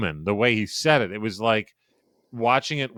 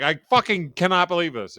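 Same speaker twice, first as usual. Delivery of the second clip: high, emphatic mock disbelief; raised-pitch imitation of an amazed announcer; disbelieving reiteration; 8 semitones higher than usual. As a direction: restate it as a stunned fan would. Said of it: "he just reiterates it".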